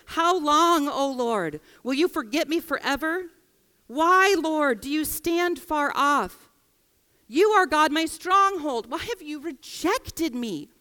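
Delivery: psalm lament. Acted. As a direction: cry out to God in anguish.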